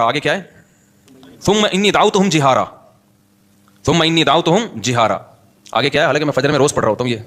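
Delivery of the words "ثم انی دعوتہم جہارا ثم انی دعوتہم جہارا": slow, level-pitched Arabic recitation; steady recital from memory; Quran recitation. Real, not acted. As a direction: recite the verse in measured, drawn-out Arabic.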